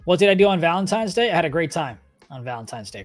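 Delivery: usual speaking voice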